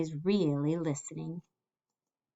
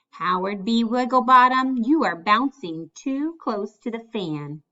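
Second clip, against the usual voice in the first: louder warning call to Howard; teacher calling out; 3 semitones higher, 6 dB louder than usual. Acted. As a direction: call out sharply to the bouncing boy. Teacher warns bouncing Howard.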